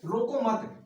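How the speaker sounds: रोको मत as one closed phrase; group रोको with मत and stop; stop after मत. Shown as a demonstration. Teacher shows the comma's effect, stopping after मत. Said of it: "मात्र एक अल्पविराम से ही".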